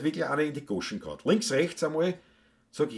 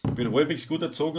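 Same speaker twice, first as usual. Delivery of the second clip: "halbwegs" given the emphasis; weight on "halbwegs", the rest lighter; stress on halbwegs; faster than usual. Real, not acted. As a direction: lean on the word "halbwegs". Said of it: "aber Betonung liegt auf halbwegs".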